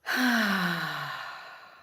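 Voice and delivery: long, loud falling sigh; dramatic sigh. Shown as a demonstration. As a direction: let out a big releasing sigh. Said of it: "let it be just gone through the mouth as you exhale".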